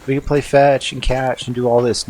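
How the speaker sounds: high, giddy playful animal; cute critter voice. Pretend. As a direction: squeal it like a happy pet. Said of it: "play around in the sense of".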